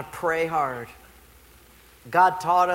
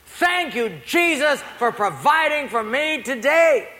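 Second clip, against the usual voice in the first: grateful lady; 6 semitones higher, 3 dB louder than usual. Acted. Poor lady thanking Jesus on her porch, joyful praise. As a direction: imitate a devout lady praising aloud.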